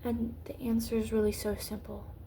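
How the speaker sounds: intense hushed whisper. Real, not acted. Vlogger whispering her point, intense. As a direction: lean in and whisper it.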